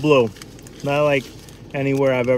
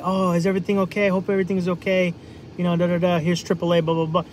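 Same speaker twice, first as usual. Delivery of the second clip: higher, sugary fake concern; fake nice city person; 6 semitones higher, faster than usual. Big-city stranger to stranded driver, fake-nice and high. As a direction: brush them off with polite cheer. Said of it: "They'll be nice to your face and say".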